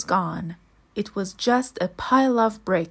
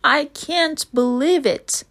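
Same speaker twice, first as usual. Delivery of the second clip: gasped; 5 semitones higher, 4 dB louder than usual. Acted. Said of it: "he gasped".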